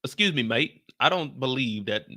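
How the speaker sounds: a barely British UK accent attempt; half-hearted UK accent, mostly own voice; failed UK accent. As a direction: try a British accent and miss it. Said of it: "I can't do a U K accent".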